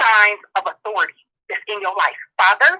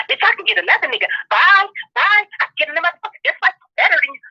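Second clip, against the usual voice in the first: sassy mock brush-off; 5 semitones higher than usual. Mocking a single woman who claims she can replace her man easily. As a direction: rattle it off like a woman waving her ex away.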